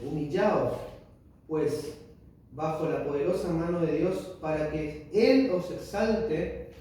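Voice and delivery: slow, weighty Bible reading voice; solemn scripture reading. Acted. Reading First Peter to the congregation, slow and solemn. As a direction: read each word of the verse like a proclamation.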